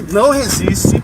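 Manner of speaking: ordem firme e lenta. Real, not acted. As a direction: comando de policial, devagar. Policial contendo mulher na praça. (policial ordenando, firme)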